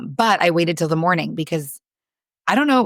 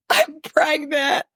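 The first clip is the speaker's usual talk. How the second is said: high, slow, stunned reveal; dazed announcement; 11 semitones higher, much slower than usual. Retold or imitated. Bursting out to husband with news.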